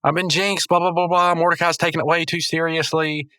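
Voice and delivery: high-pitched cartoon plea; pleading Rigby. Rigby begging a ghost friend for help, high pleading. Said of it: "and he's like".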